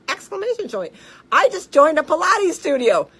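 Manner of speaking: reading the patient's email aloud, high and loud; bubbly and thrilled, every exclamation point bursting; gushing patient email. Retold or imitated. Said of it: "I'm gonna read the August twenty-seventh email".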